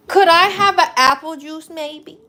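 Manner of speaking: playful begging; sweet asking. Pretend. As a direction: ask like a polite little kid. Mother asks son politely.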